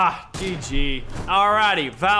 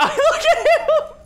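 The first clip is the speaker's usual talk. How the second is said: laughing; 4 dB louder, much slower than usual. Real, not acted. Laughing at a silly player.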